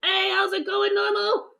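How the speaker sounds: talking through a bite of sandwich; mouth full. Real, not acted. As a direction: greet someone while chewing. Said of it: "Sorry, I'm eating a chicken sandwich".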